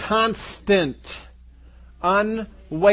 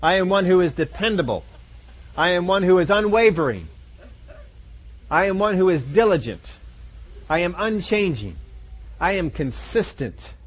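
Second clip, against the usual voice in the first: mirror affirmation. Pretend. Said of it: "look at yourself in the mirror and say".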